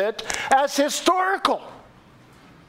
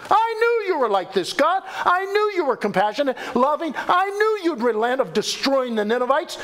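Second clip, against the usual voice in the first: indignant complaint to God, higher pitched; angry; 5 semitones higher than usual. Acted. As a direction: throw it in God's face as an accusation. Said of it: "He's angry".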